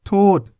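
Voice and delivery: "tod" ended on a T; high, falling "tod" closed with a T; final T sound. Shown as a demonstration. Teacher models the Thai word for blame, final T sound. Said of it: "sounds like a T".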